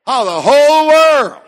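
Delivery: preacher rising into a shout; building to a shout. Real, not acted. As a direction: build from a hush to a full cry. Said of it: "I'm close to shouting right there now".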